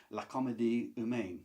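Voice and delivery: lightly attempted French accent; French title in a modest French accent; best French accent. Shown as a demonstration. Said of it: "That's my best French accent there".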